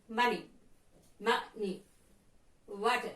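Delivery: "money" and "Water" stressed on MO and WA; stress on first syllable. Shown as a demonstration. Teacher gives noun examples "money", "Water", first syllables stressed. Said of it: "So the first syllable will be stressed".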